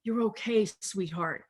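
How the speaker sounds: gently voiced motherly comfort, softening on "sweetheart"; lightly acted, unhurried nurturing voice; tender reassurance. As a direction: soothe them like a held child. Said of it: "divine feminine holding us and reminding".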